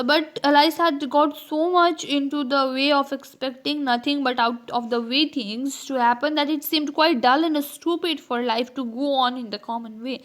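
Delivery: reading the book passage slowly and carefully; slow, careful textbook reading; slow read-aloud. Acted. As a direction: read the English text out slowly to the class. Reads the book text aloud.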